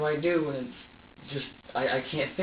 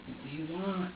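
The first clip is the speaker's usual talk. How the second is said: frustrated pleading; 3 semitones higher, 7 dB quieter than usual. Retold or imitated. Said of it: "More frustration".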